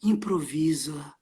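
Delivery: low urgent whisper. Acted. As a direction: hiss it down the phone. Urging friend on the phone.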